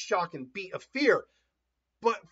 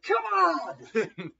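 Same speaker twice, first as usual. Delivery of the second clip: battle goad; 8 semitones higher than usual. Acted. Acting Naruto goading the enemy.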